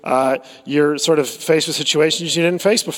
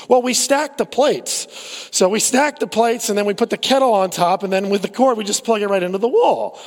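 imitating the proud leader; 5 semitones higher than usual. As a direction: lay out the clever plan proudly. Youth leader explaining workaround.

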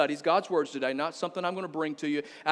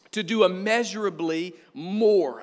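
"immeasurably more" slow and weighty; stress on immeasurably more; 3 dB louder, slower than usual. Shown as a demonstration. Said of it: "'cause this is important".

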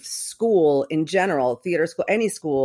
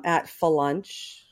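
put-on Boston accent; much slower than usual. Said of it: "my mother has a Boston accent".

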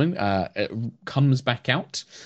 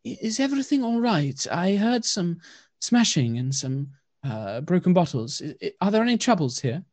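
high, soft, hesitant elf woman; soft-voiced blind elf; 7 semitones higher than usual. Blind wood elf calling out softly to strangers. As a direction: gently call out if anyone is hurt. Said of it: "in a very soft voice".

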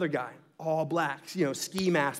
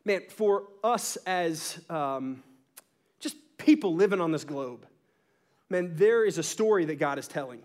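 preaching. Acted. Pastor to congregation introducing Ephesians two, earnest preaching. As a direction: draw them into the message. Sermon turns to scripture.

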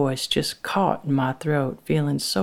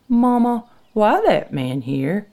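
higher, lightly voiced little girl; child's question; 7 semitones higher, 5 dB louder than usual. A narrator's reading. Little Lucy asking her mother, lightly voiced child. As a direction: ask it like a curious child, slowly.

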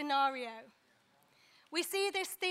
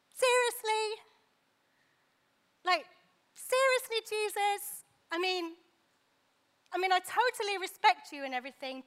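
incredulous. Acted. Simon's incredulous inner retort.

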